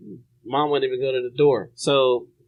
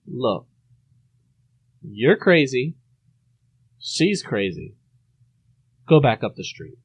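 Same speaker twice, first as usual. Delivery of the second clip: calm, collected; 2 semitones lower than usual. Retold or imitated. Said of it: "most calm, collective voice".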